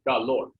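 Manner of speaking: "calor" with the stress on its last syllable, ca-LOR. Shown as a demonstration. Teacher asking which part is stressed, stress on LOR. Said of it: "Yeah, it's the lor".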